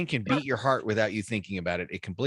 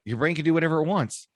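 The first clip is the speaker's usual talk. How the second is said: much higher, louder punchline; host capping his point on the brain; emphatic; 9 semitones higher, 5 dB louder than usual. Real, not acted. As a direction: declare it with force. Emphatic conclusion.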